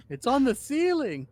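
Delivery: laughing disbelief. Real, not acted.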